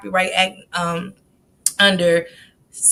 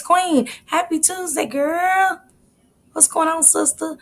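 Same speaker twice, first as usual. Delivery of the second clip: squeaky greeting; 9 semitones higher than usual. Real, not acted. Greeting viewer in high voice.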